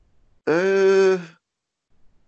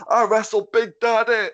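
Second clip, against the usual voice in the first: loud, higher wrestler boast; Keith Myatt impression; 9 semitones higher, 5 dB louder than usual. Friend imitating the wrestler's catchphrase, loud and high. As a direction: bellow it like an old wrestler telling his story. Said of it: "I now imitate Ryan's imitations".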